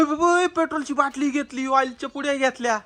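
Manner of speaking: high-pitched alarmed report. Acted. Man warns others the witch took petrol, alarmed. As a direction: raise the pitch as you warn the others.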